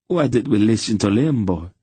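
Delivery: a frightened merchant moaning his regret; wailing. A narrator's reading. Panicked merchant to his friend after the killing, mild wail. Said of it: "the first merchant wailed".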